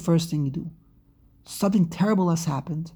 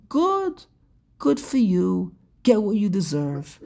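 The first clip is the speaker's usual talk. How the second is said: put-on childish taunt. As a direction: sneer it like a spiteful child. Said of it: "how they talk in kindergarten".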